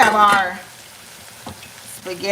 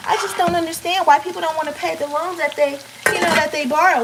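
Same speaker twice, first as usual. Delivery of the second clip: higher-pitched mock complainer; put-on baffled voice; 6 semitones higher than usual. Imitating people who don't understand loan non-payers, put-on baffled voice. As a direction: pitch it up as a puzzled critic. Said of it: "I'm just picking up a voice".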